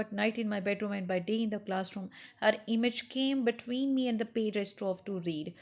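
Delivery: slow, measured literary reading; story reading. Acted. Teacher reading Araby to students, slow story narration. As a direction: read each phrase slowly to the class.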